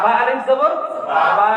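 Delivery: বা আলিফ জবর বা with a long stretched a; alif drawn out. Shown as a demonstration. Teacher showing the class the long alif, stretched. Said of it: "এই যে টান দিলাম".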